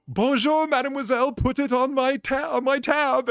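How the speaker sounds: high, loud, hammed-up French in a thick American accent; mock American tourist ordering in bad French. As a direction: call out breezily like an American faking French. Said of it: "his horrible American accent".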